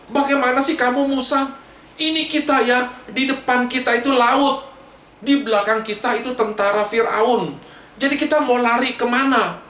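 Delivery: high-pitched, mildly cross grumbling; mock angry complaint. Israelites complaining to Musa with the sea in front, mock angry. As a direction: imitate a crowd griping at their leader. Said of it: "mereka marah-marah sama Musa".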